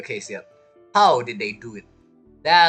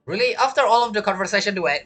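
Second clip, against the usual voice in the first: incredulous; 5 semitones higher, faster than usual. Real, not acted. Game viewer challenging a character's late realisation, incredulous. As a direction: burst in, higher and quicker, incredulous.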